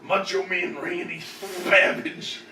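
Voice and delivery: slow drawn-out promo voice; a hint of Macho Man. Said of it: "Can you say this?".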